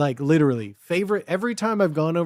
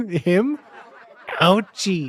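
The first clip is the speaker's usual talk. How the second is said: mechanical, computerized, speech-synth robot voice; 2 semitones higher than usual. Asked to say ouchie in the robot voice, you say it in robot voice. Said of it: "but in the robot voice?".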